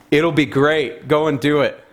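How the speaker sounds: mock-cheery, sarcastic go-ahead; dripping sarcasm. Prophet mocking the king with dripping sarcasm. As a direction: fake enthusiasm that means the opposite. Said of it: "pure dripping sarcasm".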